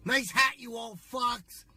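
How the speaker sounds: mock yell from the car at old folks; yelling at old people. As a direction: heckle them slowly and loudly. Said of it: "yelling at the old people".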